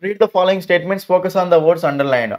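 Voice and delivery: reading the instruction word by word, slowly; slow textbook reading. Acted. Teacher reading the exercise instruction to pupils, slow and deliberate. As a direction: read it out slowly so children follow.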